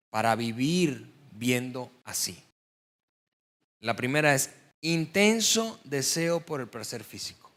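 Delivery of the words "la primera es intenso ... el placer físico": "intenso" leaned on, the key word of the phrase; stress on intenso. Shown as a demonstration. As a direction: hit "intenso" firmly, then let the rest run on. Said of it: "El énfasis está en la palabra intenso". (acento en "intenso", dicho con peso)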